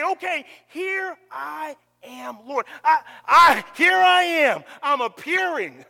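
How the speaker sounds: loud, pleading cry to God; fervent surrender. Acted. Preacher crying out surrender to God. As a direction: throw yourself on God's mercy.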